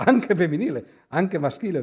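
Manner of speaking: a laughing self-correction. Real, not acted. Laughs while correcting himself.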